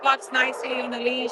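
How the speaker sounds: talking up over kennel noise. Real, not acted. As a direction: project to viewers over the din. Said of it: "Sorry if I'm screaming".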